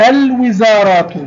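الوزارات with a clearly sounded l; teacher's careful repeat of الوزارات, l pronounced; moon lam. Shown as a demonstration. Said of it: "لام قمرية". (نطق «الوزارات» بلام ساكنة واضحة)

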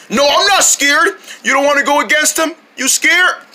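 high-pitched bickering; protesting squabble. Acted. Monkey and friend argue over who is scared, high bickering. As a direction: pitch the voice up, indignant.

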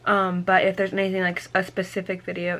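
talking around a retainer; slightly lisped, retainer in; wearing a retainer. Real, not acted. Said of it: "wearing my retainer, so it's hard to talk".

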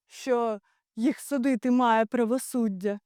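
normal talking voice

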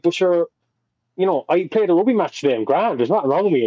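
high, fast, breezy denial; mock innocent protest. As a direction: play dumb and brush it off quickly. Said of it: "And I was like".

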